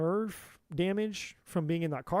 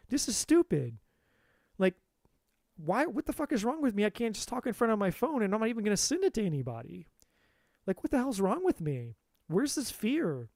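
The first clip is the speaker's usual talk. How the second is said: mock angry at myself; 4 semitones higher than usual. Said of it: "get upset and angry at myself".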